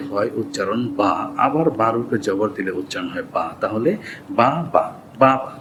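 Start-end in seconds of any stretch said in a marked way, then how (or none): 4.4-5.5 বা said as single spaced-out syllables; separate syllables. Shown as a demonstration. Teacher building a word from syllables, said separately. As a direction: spell out বা one beat at a time. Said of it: "তাড়াতাড়ি".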